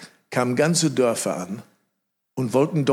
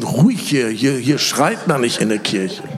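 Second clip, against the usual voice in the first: hushing shout; 4 dB louder than usual. Retold or imitated.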